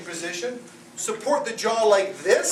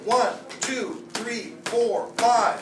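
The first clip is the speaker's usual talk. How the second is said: counting blows; much slower than usual. Shown as a demonstration. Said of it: "Five back blows".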